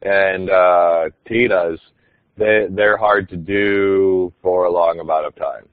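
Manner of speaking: normal voice nudged up into the nose; nasal puppet voice. Shown as a demonstration. The speaker explains voice sustainability to webinar viewers, lightly nasal. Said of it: "put up into his nose a little bit more".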